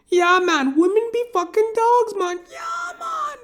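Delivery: very high squeaky caricature voice; squealing old barber caricature; barber impression. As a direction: push the pitch way up, cartoonish. Barber voice continued.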